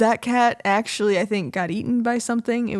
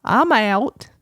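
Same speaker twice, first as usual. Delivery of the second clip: voicing the dog; 5 semitones higher, 6 dB louder, much slower than usual. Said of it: "She's like".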